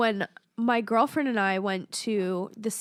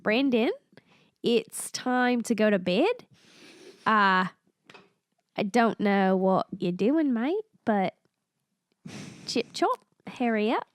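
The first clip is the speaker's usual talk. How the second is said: put-on Australian–New Zealand accent. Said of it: "hybrid of Australian and New Zealand".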